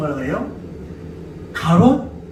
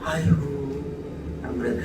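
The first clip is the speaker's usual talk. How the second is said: ordinary talk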